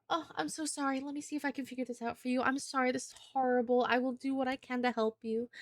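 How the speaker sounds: lightly played timid, sorry clerk; sweet shy girl voice. Shown as a demonstration. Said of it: "sweet little shy, blonde, big blue eye girl just".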